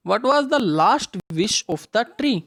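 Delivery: slow, deliberate reading of the question; slow read-aloud. Shown as a demonstration. Teacher reading the exam question to children, slow and clear. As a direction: read each word clearly for the kids. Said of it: "reads question slowly to class".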